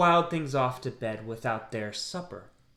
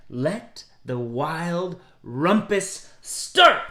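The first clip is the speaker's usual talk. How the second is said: slow announcing cry; 4 dB louder, much slower than usual. Acted. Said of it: "cried Max".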